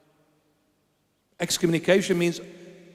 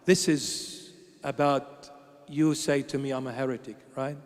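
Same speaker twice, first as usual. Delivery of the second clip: quiet retold begging; 4 semitones lower, 5 dB quieter than usual. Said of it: "I begged him, I begged him".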